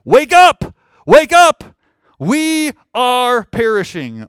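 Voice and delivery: loud, high cry to wake someone up; panicked disciples' shout. Acted. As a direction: shout it like a terrified sailor rousing his master. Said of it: "for them to be like".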